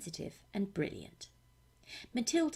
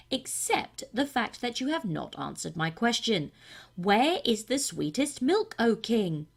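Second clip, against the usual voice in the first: cat voice; 6 dB louder than usual. Acted. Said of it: "said the cat".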